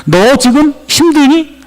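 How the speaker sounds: high, drawn-out challenging question; God challenging Jeremiah. Acted. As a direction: draw it out slowly and high, unimpressed. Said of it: "하나님은 예레미야에게 말합니다".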